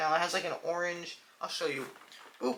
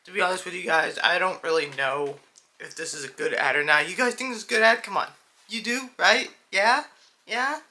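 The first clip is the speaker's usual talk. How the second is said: mock ad narrator; 5 dB louder than usual. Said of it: "the narrator of the ad is like".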